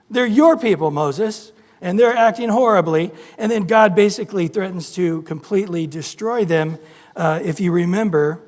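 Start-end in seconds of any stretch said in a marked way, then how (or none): 0.1-3.1 scolding God. Retold or imitated.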